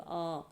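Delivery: आ sung out with the mouth wide open; teacher showing आ with a fully open mouth; open vowel demo. Shown as a demonstration. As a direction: say आ with the jaw fully dropped. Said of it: "पूरा मुंह खुलेगा".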